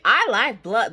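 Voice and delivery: imitated creepy relish. Mom quoting daughter's scary statement, imitated relish. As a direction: lightly echo the eerie delight. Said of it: "the way she said it".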